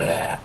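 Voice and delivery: rough monster grunt; fiend's recoiling snarl. Acted. Arbiter brings the blade closer, fiend snarls. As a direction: snarl as if repelled.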